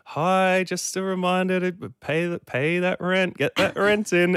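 imitating estate agent. Real estate agent calling the tenant, mock chirpy reminder. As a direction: put on a breezy office phone voice.

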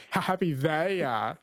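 "they" given the emphasis in the phrase; stress on THEY. Shown as a demonstration. Radio host reading a song line back, stress on "they". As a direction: lean on the word "they". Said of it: "emphasis on the they".

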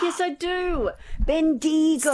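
high put-on American accent, Bendigo said BEN-dee-go; mock American accent. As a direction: mimic an American commentator saying Bendigo. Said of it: "American sports commentator ... called it Bendigo".

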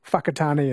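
Whakatane begun with an F sound; Māori WH as F. Shown as a demonstration. Host showing listeners Māori spelling, Whakatane said with an F. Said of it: "the W H is pronounced F".

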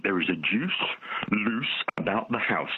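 slow, drawn-out advert line; slow advert jingle. Retold or imitated. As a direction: stretch out "loose about the house" like an old sweet advert. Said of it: "and it went".

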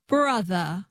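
"Brother" with no final R; transatlantic dropped R. Shown as a demonstration. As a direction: copy "Brother" ending on uh. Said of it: "you drop the R and you make it a schwa".

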